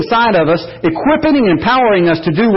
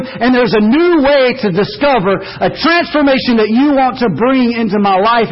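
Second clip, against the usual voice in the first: heartfelt prayer; 3 semitones higher than usual. Pretend. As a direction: pray it from the heart. Prayer voiced for the listeners.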